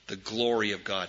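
the refrain said softly, almost to himself; soft, reverent murmur; quiet. Shown as a demonstration. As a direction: let it drop to a soft murmur. Refrain repeated, dropped low.

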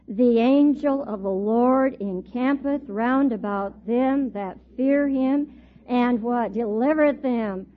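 slow solemn verse recitation; scripture reading. Acted. Teacher leading the class through a verse, slow solemn reading. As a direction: read it out slowly for all.

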